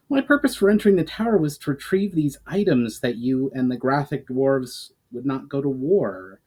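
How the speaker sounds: heated elf. Acted. Elf Valinar defends himself to goblin, heated. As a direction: push back hard on the accusation. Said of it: "stated the elf heatedly".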